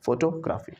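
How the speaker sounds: फोटोग्राफी split as photo... graphy; wrong syllable break. Shown as a demonstration. Teacher shows mistaken फोटोग्राफी, foto-graafi. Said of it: "no, जी तक बोलो".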